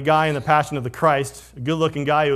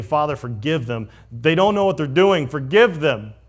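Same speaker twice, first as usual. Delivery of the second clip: pleading prayer; 5 dB louder than usual. Retold or imitated. Jesus on the cross.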